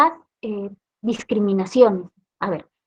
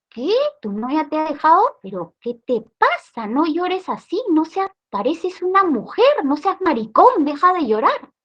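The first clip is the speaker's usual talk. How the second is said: higher, scoffing macho taunt; mocking coworkers; 4 semitones higher than usual. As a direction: jeer at him like a pushy coworker. Coworkers mocking a crying man.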